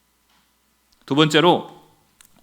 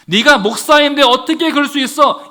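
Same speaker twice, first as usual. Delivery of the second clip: higher, accusing question; mock interrogation; 5 semitones higher, 4 dB louder than usual. What the Lord would not ask a pastor, accusingly. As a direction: demand it with a touch of indignation. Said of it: "이렇게 묻지도 않으십니다".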